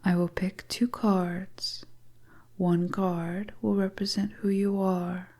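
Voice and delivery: a hint of a teasing witch, whispered; whispering seductress. Stranger luring the lost traveller into her hut, teasing whisper. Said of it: "the beautiful stranger starts to speak".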